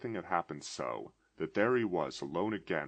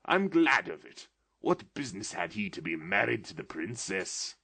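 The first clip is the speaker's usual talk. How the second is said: much higher, loud, giddy delight; pointing at old heroes with childish glee; excited old man, almost laughing; between laughing and crying; 5 semitones higher, 4 dB louder than usual. A narrator's reading. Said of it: "extraordinary voice between laughing and crying".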